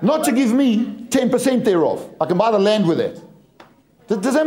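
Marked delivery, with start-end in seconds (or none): 0.0-2.1 slow, pounding emphasis; preacher driving the point home; emphatic shout. Real, not acted. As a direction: hammer each word of it. Preacher stresses point, shout heard.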